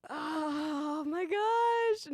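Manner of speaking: slow, stretched New Zealand oh my gosh; New Zealand accent. Acted. Trying to find a New Zealand accent, stretched slowly. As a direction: draw it out like a Kiwi. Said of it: "New Zealand".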